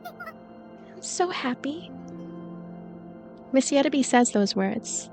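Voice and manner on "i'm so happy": very soft, slow and hushed; soft whisper. A narrator's reading. Miss Yettaby to the narrator while falling, soft whisper. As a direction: breathe it out slowly, barely audible. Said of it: "like a soft whisper".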